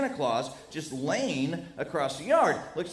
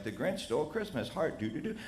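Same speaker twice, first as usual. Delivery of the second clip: hushed bedtime reading; 2 semitones lower, 7 dB quieter than usual. Retold or imitated. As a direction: read it softly like tucking kids in. Dad reading bedtime story.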